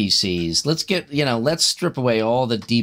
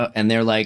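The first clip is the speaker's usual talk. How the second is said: plain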